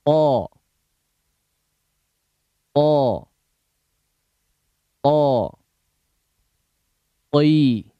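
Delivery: each syllable a single loud drawn-out call; drilled letter sounds. Shown as a demonstration. Teacher leading a recitation drill, loud calls. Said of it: "Silakan dibaca".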